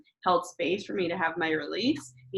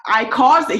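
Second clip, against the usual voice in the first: high, loud laughing admission; husband admits it through laughter; 7 semitones higher, 11 dB louder than usual. Retold or imitated. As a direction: laugh it off while owning up. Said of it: "he's laughing 'cause he's like".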